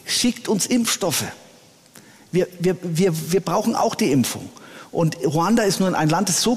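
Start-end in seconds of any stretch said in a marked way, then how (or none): 0.1-4.5 a touch of pleading, halting and measured; retold plea. Church president asks his friend for vaccines, mildly retold pleading. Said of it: "hat mich angefleht".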